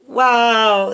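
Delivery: loud, long wow of real wonder; amazed wow. Real, not acted. Card reader seeing beautiful cards, amazed. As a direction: burst out of the hush with a big wow.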